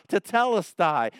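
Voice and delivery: "Tetelestai" called out loud and high, falling at the end; shouting tetelestai. Shown as a demonstration. Preacher shouts Jesus' word from the cross, loud proclaiming cry. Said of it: "like shouting it".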